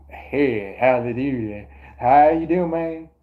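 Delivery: affected, not your natural voice; put-on fake voice. Shown as a demonstration. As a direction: greet them in a fake twangy voice. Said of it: "compared to this voice".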